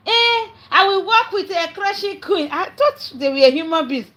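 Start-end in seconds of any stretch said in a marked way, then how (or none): 0.1-2.5 higher, slow, hammed-up pompous promise; mocking Otumba. Mocking Otumba announcing he'll work with Crushing Queen, slow and higher. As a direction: lampoon a big man making a grand offer. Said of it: "Otumba just came out".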